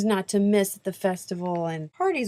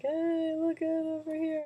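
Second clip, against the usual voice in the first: mock calling out; 10 semitones higher, 6 dB quieter than usual. Trying to catch Benedict's eye.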